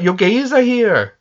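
high, laughing attempt at a Welsh accent; a poor Welsh accent through laughter. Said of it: "I can't do a Welsh accent".

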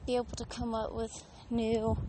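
breathless from walking; out of breath. Real, not acted. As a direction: talk while catching your breath. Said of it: "sorry if I'm out of breath".

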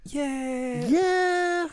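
uptalk. Retold or imitated. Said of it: "Not high pitched".

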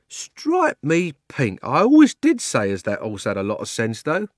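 lightly voiced London cabby; a touch of a London cabman's surprise. The cabby marvelling at his horse, lightly cockney.

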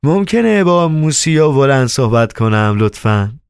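politely warm. Acted. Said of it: "وارنوخا با گرمی پرسید".

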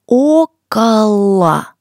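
slow, loud, syllable by syllable; slow and clear. Shown as a demonstration. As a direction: spell it out slowly for learners. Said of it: "и можно даже чуточку лучше".

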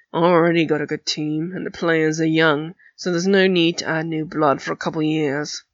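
put-on gruff teen boy voice. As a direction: talk it down low like a cocky captain. Flint voiced in story.

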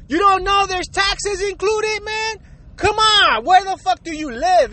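high-pitched exasperation; exasperated. Real, not acted. Scolding careless shoppers in the line, exasperated and high. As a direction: throw the question back in disbelief.

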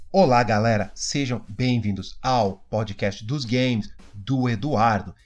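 lightly mocking generic youtuber intro; slow, hammed-up youtuber host. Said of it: "vai virar aqueles youtubers genéricos". (imitando youtuber genérico)

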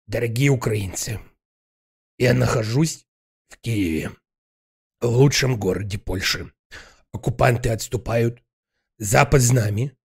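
low mock presidential address; lightly voiced solemn president speech; Zelensky parody. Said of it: "Зеленский из Варшавы". (пародия на обращение президента)

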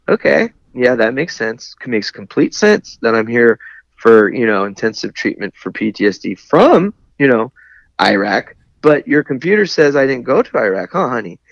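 mildly condescending, sweetly patient retold reply; a touch of mock patience, ending on honey; like talking to a kid. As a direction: talk down to her as if to a child, lightly. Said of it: "I started talking to her kinda like a kid".

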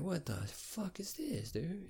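high, soft, drawn-out disbelief; incredulous. Retold or imitated. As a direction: squeak it out slowly, stunned by the nonsense. Acted disbelief at manager being called.

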